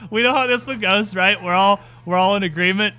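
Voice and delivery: loud playful build-up; rally the table with a grin; excited. Real, not acted. GM hyping up running joke.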